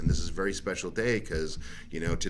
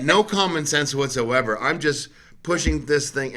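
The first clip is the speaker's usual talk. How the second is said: mock dim brain voice; 6 semitones higher, 4 dB louder than usual. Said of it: "my brain's like".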